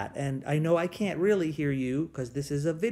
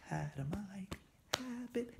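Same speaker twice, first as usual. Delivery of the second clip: soft call; 3 semitones higher, 15 dB quieter than usual. Acted. Call-and-response song, soft lead.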